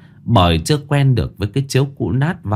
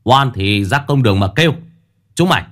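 cười khẩy; faster than usual. Acted. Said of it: "cười khẩy".

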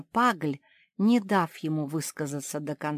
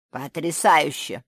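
delighted; 8 dB louder than usual. Acted. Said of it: "восхитился Муражёр".

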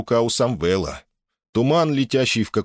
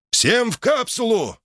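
high, stretched-out command shout; barked order; slower than usual. A narrator's reading. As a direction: call everyone urgently, high and drawn out. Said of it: "рявкнул он".

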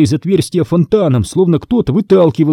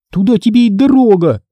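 облегчение; 9 semitones higher, 3 dB louder than usual. Acted. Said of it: "облегчённо вздохнула я".

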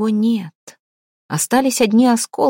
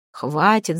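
plain reading voice

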